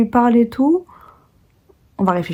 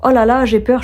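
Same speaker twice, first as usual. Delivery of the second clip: a touch of put-on panic, higher; lightly dramatized admission of fear; mock fearful; 4 semitones higher than usual. Shown as a demonstration. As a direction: act out a mild fretting. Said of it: "ça ne veut pas dire".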